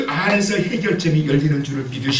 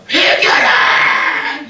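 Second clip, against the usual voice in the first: much higher, louder, very slow cry; drawn-out shout; 11 semitones higher, 7 dB louder, much slower than usual. Pretend. Imagined Ezra shouting at the people to repent, long and loud. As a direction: bellow the call to repent. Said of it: "이렇게 하지 않고".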